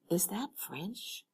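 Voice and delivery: slow, breathy whisper aside. A narrator's reading. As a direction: whisper so the visitor cannot hear. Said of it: "she whispered to Helena".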